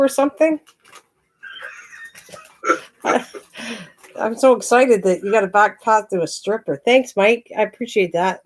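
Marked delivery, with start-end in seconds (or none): 4.2-8.4 playfully sarcastic thanks; mock gratitude. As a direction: feign excitement, tongue in cheek.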